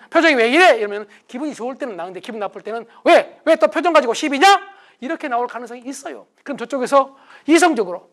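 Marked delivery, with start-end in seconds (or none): 0.1-0.8 raised, louder and higher; said loudly. Shown as a demonstration. Spouse loudly asking about partner's face. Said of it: "이 말을 좀 크게 한다든지". 3.0-4.6 higher, louder, picking a fight; defensive snap. Retold or imitated. Wife snapping back at husband, louder and higher. Acted defensive spouse quarrel.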